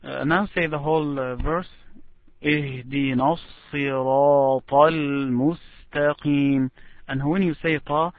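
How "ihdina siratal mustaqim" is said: slow recitation with long held vowels; Quranic recitation. Shown as a demonstration. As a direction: model the whole verse, slowly drawn out.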